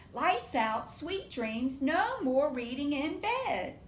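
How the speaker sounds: loud slow firm mother; firm mama. Acted. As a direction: lay down the rule like a firm mom. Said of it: "Can you say it with her?".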